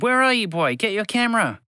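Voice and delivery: demanding editor shout; boss shouting. A narrator's reading. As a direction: yell for his photographer. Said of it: "Geronimo Germson shouted".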